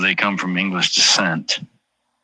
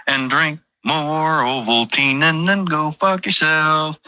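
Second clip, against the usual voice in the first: mock ad sign-off; 8 semitones higher, slower than usual. Sign-off parody ad.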